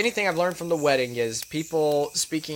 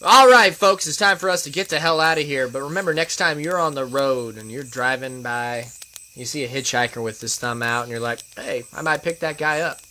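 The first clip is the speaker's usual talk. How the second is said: trucker-style host outro, from rowdy warning to easing goodbye; podcast sign-off. Acted. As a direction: play up the warning, then settle into a measured farewell. Performs the show's scripted sign-off.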